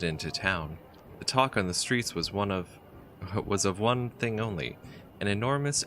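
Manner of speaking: reading the game's story text aloud, evenly; story narration. A narrator's reading. Player reading the adventure's story, steady narrator voice. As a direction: tell it like a travel tale.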